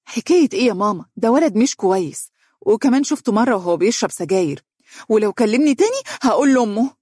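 indignant, exasperated outburst; resentful. A narrator's reading. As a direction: complain crossly, building to a threat. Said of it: "وهي تقول بحنق".

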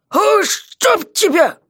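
high, very slow, groaned curse; jailer's drawn-out despairing curse. Acted. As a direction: moan it out in despair. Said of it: "В отчаянии простонал он".

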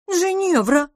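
высокое восклицание сквозь улыбку; сдержанный смешок в имени; с улыбкой. A narrator's reading. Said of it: "не смогла сдержать улыбку". (с улыбкой, высоко)

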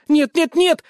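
high, loud frantic cries; panicked screaming. Acted. Zoe fighting him off. (высокие громкие панические крики)

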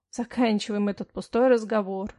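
curt, displeased cutoff. Acted. Husband displeasedly ending the argument with his wife. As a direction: shut the talk down with annoyance. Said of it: "с неудовольствием оборвал муж".

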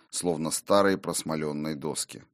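ordinary delivery, nothing marked

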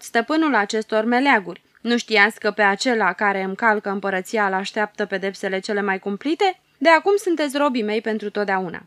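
the little bearded ruler boasting to the captives; boastful. Acted. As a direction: lord it over the captives. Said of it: "adaugă cu îngânfare".

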